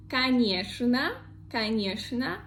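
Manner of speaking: конечно as ka-NYESH-na. Shown as a demonstration. Teacher showing a popular exception, конечно as ka-NYESH-na. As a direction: say конечно with "sh" where ч is written. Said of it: "in reality it is sh".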